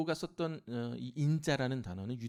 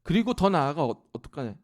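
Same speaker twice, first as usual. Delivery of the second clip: ordinary talk, nothing marked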